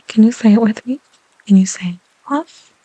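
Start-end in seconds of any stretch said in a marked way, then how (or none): 1.5-2.7 whisper. Real, not acted. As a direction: breathe the words gently. ASMR whisper.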